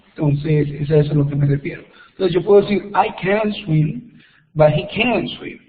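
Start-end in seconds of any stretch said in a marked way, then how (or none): 2.9-4.1 CAN run smoothly into "swim"; linked-up CAN. Shown as a demonstration. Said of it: "cuando uno está hablando rápido, uno une todo". 4.8-5.6 CAN'T with the final T left unsounded; silent T. Shown as a demonstration. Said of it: "ahí no me sonó la T".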